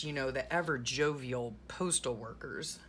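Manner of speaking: dry, mocking praise; sarcastic. Real, not acted. Mocking the grumpy post office staff, sarcastically. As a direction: say jovial and mean the opposite. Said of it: "I say that very sarcastically".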